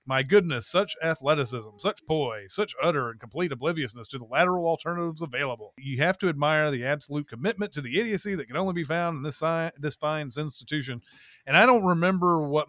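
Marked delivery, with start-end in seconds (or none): 0.0-11.0 fast, swooping play-by-play patter; old-timey announcer. Shown as a demonstration. Narrator calling the event play-by-play, old-timey announcer voice. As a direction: call it like an old-time race announcer. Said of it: "announcer voice".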